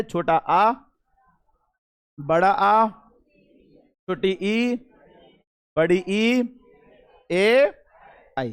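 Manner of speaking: छोटा आ, बड़ा आ drawn out slowly; vowel demo. Shown as a demonstration. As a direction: stretch each vowel name. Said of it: "जैसे".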